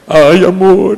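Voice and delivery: high whiny imitation of a crying wife; mock crying wife. Pastor imitating his crying wife on the phone, high and whiny. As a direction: whimper it like a teary wife. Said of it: "me liga chorando".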